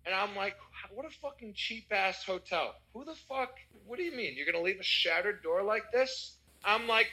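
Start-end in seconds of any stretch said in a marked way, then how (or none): 0.9-6.4 indignant. Retold or imitated. Guest complaining about a shattered hotel door, indignant. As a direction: act out griping in outraged disbelief.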